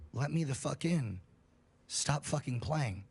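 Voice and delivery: slow, halting, with no human rhythm; a creature copying human speech badly, word by word; halting unnatural voice. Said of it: "in this halting, weirdly toned voice".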